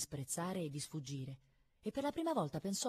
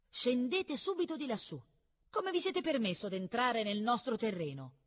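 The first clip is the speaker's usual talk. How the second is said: put-on loud, high, angry girl's scolding; indignant telling-off at raised pitch; spiteful command; 7 semitones higher, 5 dB louder than usual. A narrator's reading. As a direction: order the intruder down, high and loud. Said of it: "puntando un indice contro il ragazzo incattivita".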